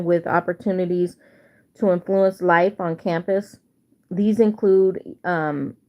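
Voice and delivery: talking with a retainer in; tongue hitting the retainer; wearing a retainer. Real, not acted. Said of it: "my tongue is hitting the retainer".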